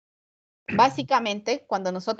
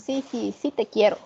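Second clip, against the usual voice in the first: ironic. Shown as a demonstration. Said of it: "cuando hablamos nosotros de forma irónica".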